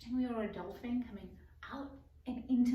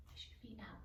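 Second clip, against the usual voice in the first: much softer, slow; soft whisper; 3 semitones lower, 15 dB quieter, slower than usual. Real, not acted. Teacher quietly guiding the children through yoga, much softer. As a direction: breathe out the cue softly.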